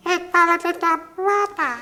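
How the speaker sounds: put-on very high little boy voice; Little Jim's high child voice; high-pitched child. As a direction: squeak it like a small child. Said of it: "a high-pitched child played by Spike".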